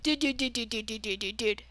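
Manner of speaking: rattled-off mock teacher chant. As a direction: imitate his verbal tic, running words together. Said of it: "He would say "dude" all the time".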